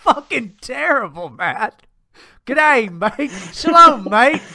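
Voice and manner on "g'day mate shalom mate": loud, higher hammed-up Jewish New Zealander accent; mock Jewish New Zealand accent. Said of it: "Is that Jewish guy from fucking New Zealand?".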